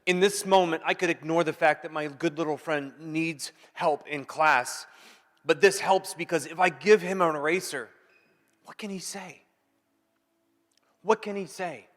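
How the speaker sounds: lightly voiced inner thought; voice of kindness. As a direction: speak as kindness itself. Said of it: "Kindness says".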